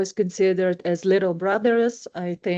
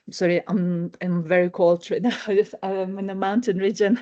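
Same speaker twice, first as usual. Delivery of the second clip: shivering, teeth chattering. Real, not acted. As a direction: voice shaking from the cold. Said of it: "my voice may be shaking".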